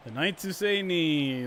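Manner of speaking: slow, lightly voiced Monty Python quote; quoting Monty Python. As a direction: toss off the famous line in a half-put-on voice. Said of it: "references to Monty Python".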